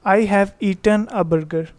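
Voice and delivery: slow, careful read-aloud of the example; teacher dictating an example. Shown as a demonstration. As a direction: read the sentence out slowly for the class. Teacher reads example slowly.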